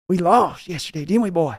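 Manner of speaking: a hint of the owner's high voice; father scolding son over the loss, lightly voiced; Jerry Jones scolding. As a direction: needle the son about the loss. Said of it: "your Jerry Jones voice yelling at Steven".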